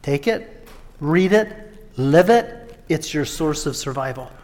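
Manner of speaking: quiet, earnest charge to the prisoners; gentle charge. Retold or imitated. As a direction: hand them the Bible gently. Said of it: "he said".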